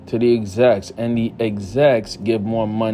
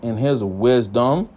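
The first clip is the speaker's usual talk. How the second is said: slow, drawn-out sarcasm; real sarcasm, words dragged out; sarcastic. Real, not acted. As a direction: stretch out "wisdom" with mock respect. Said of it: "I'm being sarcastic".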